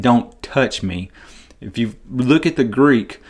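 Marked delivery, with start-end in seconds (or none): 0.0-1.1 slow, cold, pushing her away; curt rejection. Shown as a demonstration. Preacher showing how Jesus did not mean it, curt and cold. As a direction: say it as a curt brush-off. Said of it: "he's not saying".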